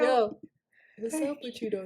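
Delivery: low and smooth, not much push; a lightly voiced come-on; smooth pickup line. Shown as a demonstration.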